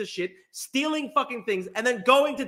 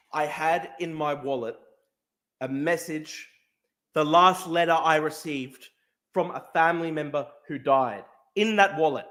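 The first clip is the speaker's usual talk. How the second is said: subdued grief; 7 semitones lower than usual. Real, not acted. Grief over lost letter.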